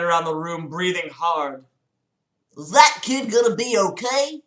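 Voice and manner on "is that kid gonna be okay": lightly voiced old police chief; a hint of a grunting cop. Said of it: "the old chief of police grunted".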